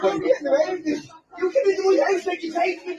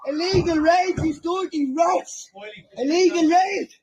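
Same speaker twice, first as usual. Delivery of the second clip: frantic shouted protest. Real, not acted. Man yelling at police raiding his house, frantic shout. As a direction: yell it out as police storm the house.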